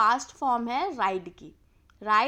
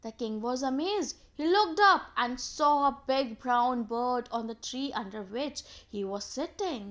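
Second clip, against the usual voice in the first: slow, deliberate storytelling; story read-aloud; much slower than usual. A narrator's reading. Teacher reads of the amazed king looking up, in slow narration. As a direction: read it out slowly, settling at the end.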